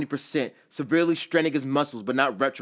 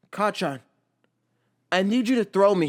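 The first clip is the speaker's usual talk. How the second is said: put-on eager young Izuku; 7 semitones higher, 4 dB louder than usual. Izuku asks Bakugo urgently.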